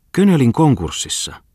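can't believe what he hears; shocked disbelief. A narrator's reading. Falk hearing of Könölin's ruin, shocked and high.

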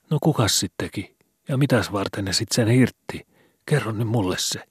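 put-on high, keen boy's voice; eager. A narrator's reading. Skobe eagerly begs Vili to tell the story. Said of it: "sanoi Skobe innostuneena".

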